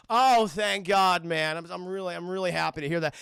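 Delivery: mock relief in a fake American accent; put-on, hammed-up American accent; goofy American accent. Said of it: "attempts to do an American accent".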